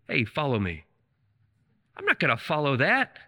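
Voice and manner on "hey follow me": wimpy. Shown as a demonstration. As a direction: say it like a timid, weak invitation. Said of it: "a, a wimpy".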